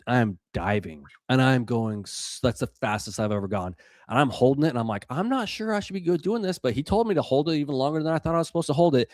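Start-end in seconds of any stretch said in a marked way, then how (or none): 5.1-9.1 high, rushed worried thought; mock-anxious inner voice, pitched up; retold doubt. Retold doubts while diving too long.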